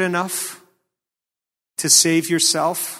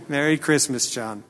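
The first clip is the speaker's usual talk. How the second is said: laughing; 4 dB quieter than usual. Shown as a demonstration. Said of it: "Say something happy here".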